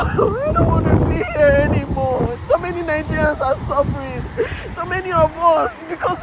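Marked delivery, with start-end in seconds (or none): 0.0-2.4 crying shout. Real, not acted. Breaking down about life abroad.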